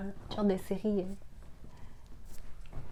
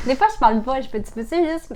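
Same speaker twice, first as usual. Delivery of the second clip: jittery, hyper from coffee; wired on coffee, can't stop; too much caffeine; 3 semitones higher, 4 dB louder than usual. Real, not acted. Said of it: "j'ai trop bu de café".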